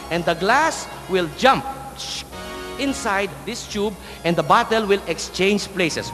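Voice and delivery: slow, dramatic showman build-up; kids party magician. Acted. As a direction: draw it out for the children.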